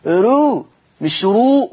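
slow "رو" first light then heavy; thin ra versus heavy ra. Shown as a demonstration. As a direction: contrast a thin "رو" with a full one. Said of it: "صوت الراء اللي بقوله". ("رو" مرققة ثم "رو" مفخمة)

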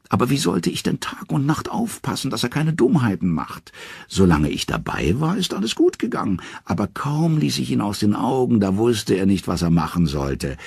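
high, lightly voiced talking head; a wise head explaining wearily; Mime's head. Mime's head explains the Vanir's regret to Odin, high voice.

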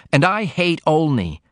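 put-on shy young daughter pouring out her worries; young woman Ruth. A narrator's reading. Ruth confides in her mother.

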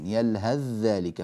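slow "يلهث ذلك" with the tha merged into a doubled "ذ"; slow Quranic recitation of "تتركه يلهث ذلك"; recited assimilation. Shown as a demonstration. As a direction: say "يلهذّلك", drawn out. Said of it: "أتينا بذال خالصة".

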